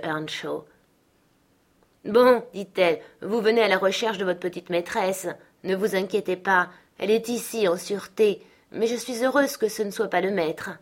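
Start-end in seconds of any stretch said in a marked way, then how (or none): 2.1-10.7 voix de servante, un peu plus haute et affable; la femme accueille Hélène avec bonhomie; servante qui rassure. Acted. (servante bienveillante, légèrement jouée)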